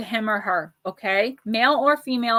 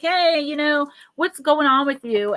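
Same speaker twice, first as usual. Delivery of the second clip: gentle prompt to husband; 4 semitones higher, 4 dB louder than usual. Pretend. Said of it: "being a little like".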